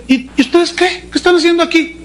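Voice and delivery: high, challenging call-out; stern John the Baptist. Acted. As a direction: confront them sharply. John confronts Pharisees.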